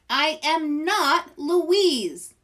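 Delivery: slow, high, loud huffy insistence; loud, slow, high indignant denial. Acted. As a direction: storm out insisting. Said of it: "storming out".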